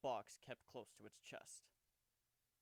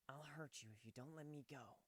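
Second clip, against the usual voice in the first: Kuno's voice; 6 dB quieter than usual. Acted. Kuno threatens while held.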